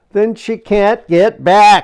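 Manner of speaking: alarmed shout, high, loud and slow. Reading a story aloud, Diggory answers Uncle Andrew; shouted. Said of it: "shouted Diggory".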